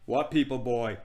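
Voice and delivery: lightly voiced imperious queen; a grand queen addressing a boy; a touch of regal disdain; haughty queen.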